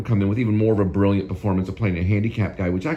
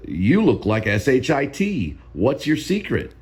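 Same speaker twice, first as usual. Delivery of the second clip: slow, higher-pitched mock delivery of an insult; playful retold jab, pitched up and stretched; Marlon Brando; 6 semitones higher, slower than usual. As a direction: lightly imitate him, drawing out each spelled letter. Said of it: "He says".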